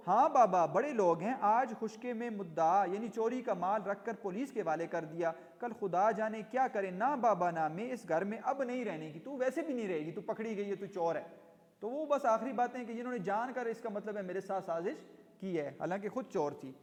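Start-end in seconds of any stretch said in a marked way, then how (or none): 0.1-11.2 loud, bristling complaint opening the rant; an old maid's angry tirade, loud at first; angry outburst. Acted. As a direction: she flares up and threatens to quit. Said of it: "بفر گئیں".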